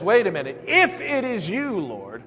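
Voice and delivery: loud, high challenge from a wary disciple; doubting Peter. Acted. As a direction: call out the doubt, half daring him. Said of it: "Peter says".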